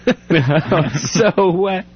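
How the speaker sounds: very slow, high disgusted whine; disgusted hostage. Pretend. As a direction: drag it out in revulsion.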